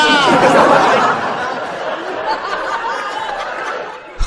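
high rising belly laugh; laughing at the insult told on himself, high and rising; long laugh. Real, not acted.

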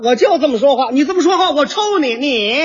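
high, sneering threat breaking into a laugh; hammed-up quarrel with cold laughter. Shown as a demonstration. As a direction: escalate toward blows while sneering. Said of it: "就用着这个冷笑了".

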